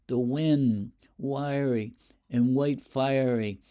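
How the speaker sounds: slow, measured verse; lightly intoned poetry; poem reading. Shown as a demonstration. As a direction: linger on wind and fiery. Poem line read in recital.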